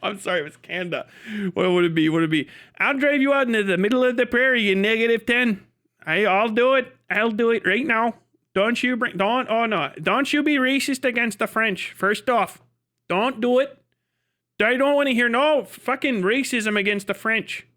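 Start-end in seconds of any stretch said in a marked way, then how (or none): 2.8-11.9 higher, worked-up Canadian scolding; hammed-up indignant local; mock threat. Redoes the Canadian threat about French. 12.0-17.6 mock scolding. Acted Canadian scolds against French racism.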